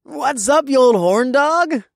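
high, loud teasing bro voice; teasing frat bro. A narrator's reading. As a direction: razz him like a frat guy. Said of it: "Toby teased".

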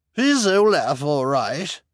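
high, loud call across the room. Acted. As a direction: call out from afar. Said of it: "called from the far side".

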